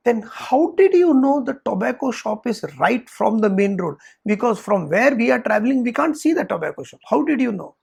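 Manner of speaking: retold friend's incredulous questioning; puzzled challenge. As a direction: press him for an explanation. Friend challenges the man's claim.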